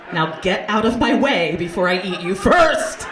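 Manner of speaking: loud, slow, hammed-up threat; mock menacing threat. Hungry diner to teenage buffet host, mock menacing roar. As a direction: bellow it like a ravenous bully, drawn out.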